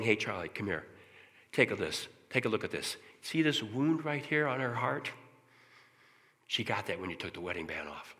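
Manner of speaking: God gently guiding Charlie, soft and tender; gentle voice of God. Retold or imitated. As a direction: show him the wound kindly. God's voice shown to speaker.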